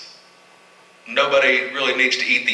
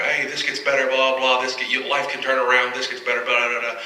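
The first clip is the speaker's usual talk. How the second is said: reassuring pop star; 3 semitones higher, 3 dB quieter than usual. Retold or imitated. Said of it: "she's talking about".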